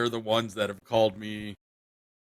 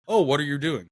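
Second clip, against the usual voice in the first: mock small talk; 4 semitones higher, 4 dB louder than usual. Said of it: "just very, like, basic level conversations".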